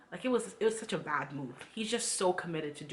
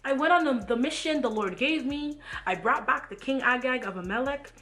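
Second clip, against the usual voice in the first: louder, much higher protest; defensive Saul; 5 semitones higher, 5 dB louder than usual. Acted. Saul protesting to Samuel he obeyed, loud and high. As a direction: insist you obeyed, voice rising. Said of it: "Then Saul goes".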